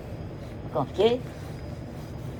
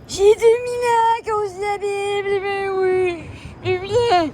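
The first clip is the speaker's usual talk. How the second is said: lightly voiced ancient man; 4 semitones higher than usual. Continues ancient Jesus persona.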